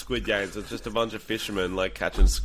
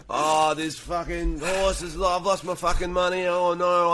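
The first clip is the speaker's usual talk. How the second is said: overacting like an ad; 7 semitones higher than usual. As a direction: ham it up like a fast food ad. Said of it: "the overacting that comes with something like that".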